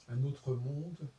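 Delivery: "autre" drawn out, very slow; slow stressed title. Shown as a demonstration. Recalling the debate's title, slow and deliberate. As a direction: spell out the title word by word, leaning on "autre". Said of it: "le titre, c'était".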